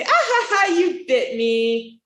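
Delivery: high laugh then a slow you bit me; high mock laughter, slow tail. Shown as a demonstration. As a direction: brush the bite off with a laugh. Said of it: "laugh and say".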